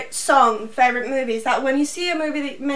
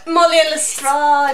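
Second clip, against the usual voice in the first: fan echo; 2 semitones higher, 7 dB louder than usual. Real, not acted. Echoes the ship loudly.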